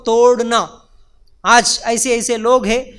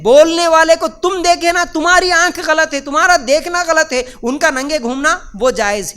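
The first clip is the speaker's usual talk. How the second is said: indignant; 6 semitones higher, 3 dB louder than usual. Real, not acted. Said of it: "preacher rising in indignation".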